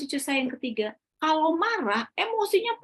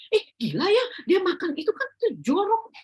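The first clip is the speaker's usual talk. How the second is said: jijik mengejek; 8 semitones higher than usual. Retold or imitated. Menirukan reaksi jijik.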